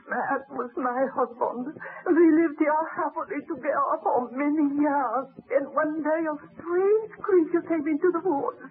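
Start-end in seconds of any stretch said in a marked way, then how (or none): 5.5-8.6 a grieving voice breaking into crying on some lines; tearful widow. Acted. The widow tells the baron how her husband was killed, weeping. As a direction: tell it through sobs, still in shock.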